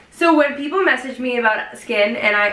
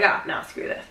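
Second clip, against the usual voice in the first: mock whisper; 6 semitones lower, 6 dB quieter than usual. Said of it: "I was like".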